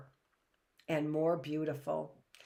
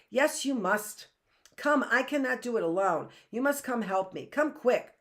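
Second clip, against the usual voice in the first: high, loud and insistent; urgent plea; 6 semitones higher, 4 dB louder than usual. A narrator's reading. Girl urging the stubborn boy to help her, urgent. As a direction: push him hard to come help. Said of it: "urged Heidi".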